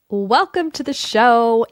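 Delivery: a hint of a kids' audio host welcoming listeners; channeling the Yoto host. Podcast host lightly imitating the Yoto host's welcome. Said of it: "I was just channeling Jake there".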